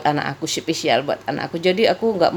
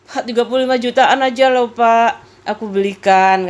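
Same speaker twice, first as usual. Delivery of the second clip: pleading; 4 semitones higher, 4 dB louder than usual. Retold or imitated. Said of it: "aku kayak gitu, bapakku jengkel".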